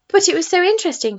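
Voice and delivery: put-on boy protesting at being sent home. A narrator's reading. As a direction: plead to stay a bit longer. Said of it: "protested George".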